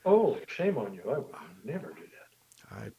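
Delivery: teasing mock disapproval; mock scolding. Mock scolding about spoiled dogs.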